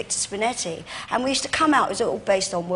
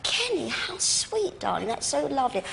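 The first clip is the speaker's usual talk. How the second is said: slow tender; 4 semitones higher, 4 dB quieter, slower than usual. Retold or imitated. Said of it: "I said".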